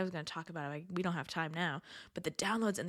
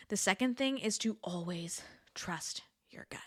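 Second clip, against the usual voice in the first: whispering. Real, not acted. Lesson stated in a whisper.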